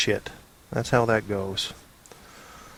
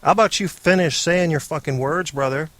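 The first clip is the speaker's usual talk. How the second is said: mock annoyed; 4 semitones higher than usual. Mock irritation at clip.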